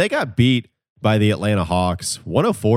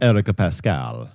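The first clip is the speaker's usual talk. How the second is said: slow, hammed-up fake Italian Eric Pascal; mock Italian, put a little spice on the name; a playful fake Italian accent on the name; bad Italian accent; slower than usual. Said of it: "that's a bad Italian accent".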